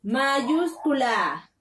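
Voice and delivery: "mayúscula" said slowly and drawn out; stretched word. Shown as a demonstration. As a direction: stretch "mayúscula" to make it stick. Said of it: "empezamos con la".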